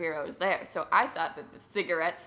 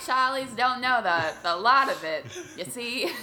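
put-on louder, old-time wisecracking film star; fifties movie voice; 3 semitones higher, 5 dB louder than usual. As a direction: toss it off like a 1950s tough guy. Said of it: "we're gonna be hearing a lot of that".

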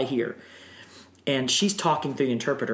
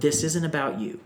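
a hint of a stern father, not mean; stern fatherly voice; 3 semitones higher than usual. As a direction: say it firm like a dad correcting you. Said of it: "but just very stern".

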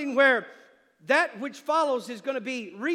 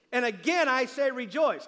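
"again" and "say rejoice" hit firmly; special emphasis; 3 dB louder than usual. Shown as a demonstration. Preacher modelling the verse for a volunteer, emphatic. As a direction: punch "again", then "rejoice". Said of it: "we're gonna have special emphasis".

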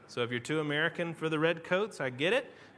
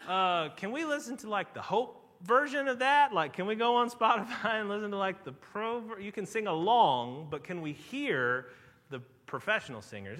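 put-on kids pleading; 3 semitones higher, 5 dB louder than usual. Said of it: "they'll say".

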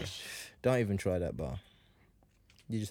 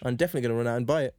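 fast sarcastic promise; much faster than usual. Real, not acted. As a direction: rattle it off with sarcasm. Sarcasm about thin review.

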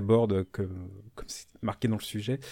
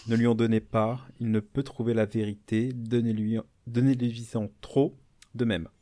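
récitation solennelle. Acted. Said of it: "Voilà, c'était beau, c'est du Pascal".

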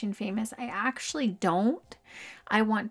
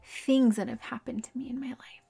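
self-affirmation. Shown as a demonstration. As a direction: recite it to yourself with weighted pauses. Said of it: "I tell myself".

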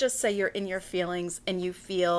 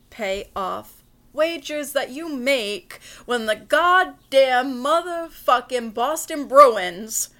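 louder, swearing through the team names; fed-up fan ranting louder; mock angry rant; 5 dB louder than usual. Real, not acted. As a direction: vent about the lost bet, half joking. Bitter rant about lost hockey bet.

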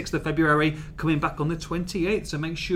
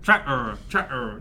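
lower-pitched rustic Norfolk "tractor"; Norfolk accent; 4 semitones lower, slower than usual. Shown as a demonstration. Host showing the guest his Norfolk accent, low and rustic. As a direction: drop into a Norfolk farmer's burr. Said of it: "do your best Norfolk accents".

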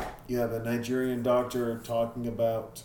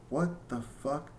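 slow, higher mock exasperation; retold exasperation; 4 semitones higher, 4 dB quieter, slower than usual. Dad retelling reaction to daughter's interruption, mildly exasperated. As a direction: imitate your own exasperated reaction, drawn out. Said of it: "I got pissed and I popped my top".

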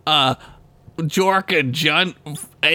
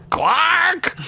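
angry shout; 12 semitones higher than usual. Acted. Cursing the bartender's name.

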